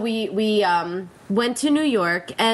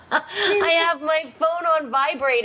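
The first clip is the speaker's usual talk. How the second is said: laughing confession; 7 semitones higher than usual. Real, not acted. Laughs while confessing buzzing phone.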